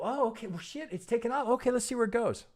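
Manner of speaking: high, offhand impulsive-trader voice; mock careless trader. Mocking a trader who chases a move, high and carefree. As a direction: play the trader who just jumps in without a plan, pitched high. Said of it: "I can't just get in and go".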